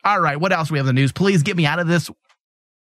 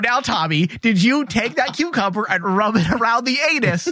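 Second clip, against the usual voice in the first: lightly voiced nagging mom, higher; scolding mother; 4 semitones higher than usual. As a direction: play the mom grilling her son. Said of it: "it sounded like a mother a bit".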